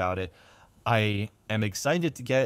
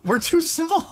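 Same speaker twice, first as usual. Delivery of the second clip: mock dumb voice; 7 dB louder than usual. Mocking their own agreeable talk.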